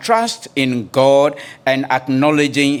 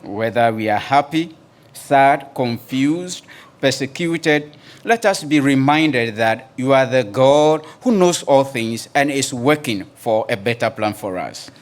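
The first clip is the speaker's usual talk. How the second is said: opening prayer. Acted. Pastor praying aloud for the congregation, earnest and reverent. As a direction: call on God with reverent weight.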